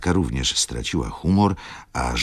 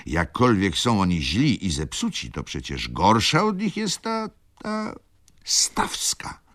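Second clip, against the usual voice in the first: high, rising to a stammer; hateful outburst; 7 semitones higher than usual. A narrator's reading. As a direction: build in outrage, then spit out the name. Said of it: "zobaczywszy płomień nienawiści". (nienawistnie, z narastającym oburzeniem)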